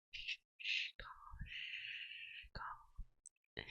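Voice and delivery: barely audible whispered shushing; calm them down with a breathy hush; a witch hushing her nervous new pet in a whisper; soothing shush. Acted. Soothing listener during spell.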